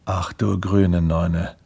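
slow, low exclamation; lightly voiced man taken aback behind his door; grumbling man. Man hears the toast service at his door, low slow grumble.

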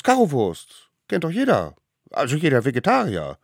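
put-on high, loud eager kids' voice; little wild ones. A narrator's reading. Little wild ones insisting to the judges, high and loud. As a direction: talk fast to convince.

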